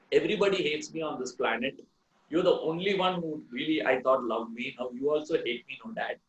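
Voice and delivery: lightly voiced hurt boy, trailing away; sad child. Boy's last words to father.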